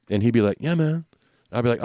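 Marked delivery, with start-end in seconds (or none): 0.6-1.0 higher, easygoing dude voice; mock mellow rocker drawl; laid-back bassist impression. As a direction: toss it off like a chill bandmate. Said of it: "That's my new Sid impression".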